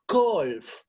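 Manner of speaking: "Calf" said slowly as /kolf/; model word. Shown as a demonstration. Teacher asking pupils to repeat, "Calf" as /kolf/. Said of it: "Repeat after me, please".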